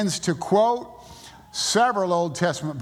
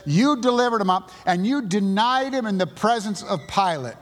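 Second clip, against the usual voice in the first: accusing; 4 semitones higher than usual. Retold or imitated. Peter accusing the religious crowd.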